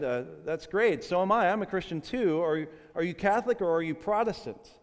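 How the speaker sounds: lightly acted enthusiasm; delighted rescuer. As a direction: play up the happy surprise. Rescuer delighted at shared faith, joke.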